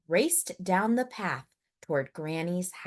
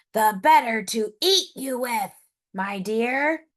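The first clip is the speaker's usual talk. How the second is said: wolf's snarl; 4 semitones higher, 4 dB louder than usual. Acted. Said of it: "snarled the wolf".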